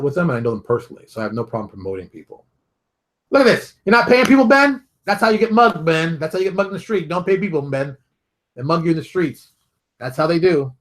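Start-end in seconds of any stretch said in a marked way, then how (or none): 3.3-10.7 high, loud mock scolding; hammed-up outraged rant at Ben; mock yelling at Ben. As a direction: yell at Ben like a ranting boss. Mock scolding Ben about paying.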